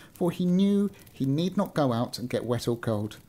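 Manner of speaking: measured storybook reading; story narration. A narrator's reading. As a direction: read it out like an old-fashioned tale. Reads a story aloud.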